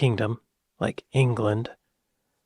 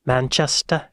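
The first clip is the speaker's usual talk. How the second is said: Manchester accent. Shown as a demonstration. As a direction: drop the final R in Manchester, British style. Guessing an English accent, two takes.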